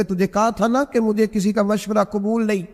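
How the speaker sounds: mock-stern husband snapping at his wife; majestic anger. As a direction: dismiss her with retold fury that jumps up high on the last words. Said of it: "میں نے جلال فرمایا".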